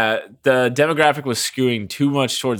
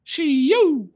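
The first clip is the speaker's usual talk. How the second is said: spooky ghost call. Acted. Spooky show sound effect.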